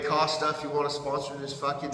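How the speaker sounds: words breaking into laughter; real laughter over "Costa, if you wanna sponsor"; laughing. Real, not acted. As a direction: giggle through the sponsor plea. Cracks up during sponsor plea.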